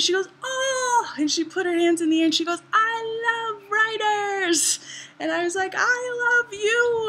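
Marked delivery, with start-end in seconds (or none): 0.4-1.1 high, mock-excited "oh"; excited gasp of delight. Woman hearing she has met a writer, excited. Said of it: "excitement on her face". 2.7-4.8 high, drawn-out gushing delight; imitated excitement. Greek woman to a writer she just met, excited. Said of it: "excitement on her face". 5.7-7.1 high, drawn-out adoring reply; gushing love. Retold or imitated. Writer answering an excited fan, gushing with love. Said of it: "there was so much love".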